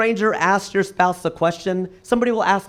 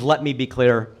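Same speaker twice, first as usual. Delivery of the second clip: Obama impression; 6 semitones lower than usual. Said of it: "he would always use that phrase".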